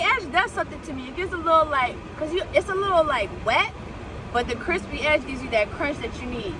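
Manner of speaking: talking between bites; chewing while speaking; mouth full of burger. Real, not acted. Seen 1: Bites burger repeatedly and talks between bites with food in mouth.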